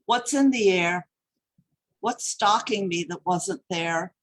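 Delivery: measured poem recital with deliberate pauses; poet's careful public reading; poetry reading. Acted. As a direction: read your poem to a hushed audience, phrase by phrase. Reads own poem aloud.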